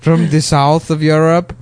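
hammed-up southern European accent; mock Spanish accent. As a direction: put on a vague Spanish accent. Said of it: "a Spanish guy".

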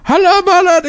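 high mock Arab accent; hammy put-on Arab accent. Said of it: "doing, like, a Arab voice".

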